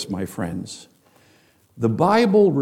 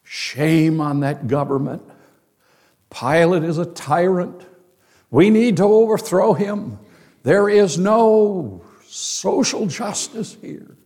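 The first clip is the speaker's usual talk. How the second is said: mock zealot; 4 semitones higher than usual. Preacher voices angry crowd zealot.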